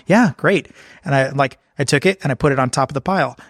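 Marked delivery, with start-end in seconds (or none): 0.1-0.7 unbothered. Retold or imitated. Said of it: "And I'm like".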